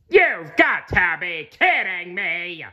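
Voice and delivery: high, slow disbelieving cry; exasperated exclaim. A narrator's reading. Squidward seeing SpongeBob's lit-up house, exasperated. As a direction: groan it out in disbelief. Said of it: "he exclaimed".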